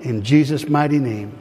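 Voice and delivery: measured prayer in short, separated phrases; repeat-after-me prayer. Real, not acted. Pastor leading congregation to accept Jesus, repeat-after-me prayer. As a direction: lead the prayer phrase by phrase, leaving room to repeat.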